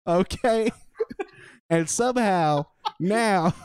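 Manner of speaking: laughing. Real, not acted. Actor breaks up mid-scene.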